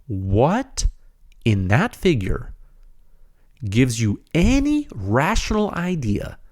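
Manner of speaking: slow, pointed rhetorical challenge; a little sarcastic. Real, not acted. Host challenging listeners with a rhetorical question, mildly sarcastic. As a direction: space the words out as a mock question. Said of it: "sarcastic a little bit".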